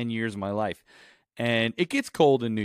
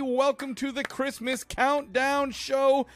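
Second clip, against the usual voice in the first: put-on higher, slow showman host voice with a little accent; 13 semitones higher, slower than usual. Host opening the Christmas show, higher, drawn out with a little accent. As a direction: roll out the big grand welcome. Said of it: "Ooh, with a little accent".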